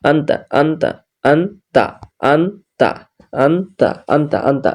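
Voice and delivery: আন্তা with the ন pronounced fully and distinctly; আন্তা, sound the নুন clearly with no nasal blending; আন্তা read clearly, izhar style. Shown as a demonstration. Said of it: "স্পষ্ট করে পড়ি".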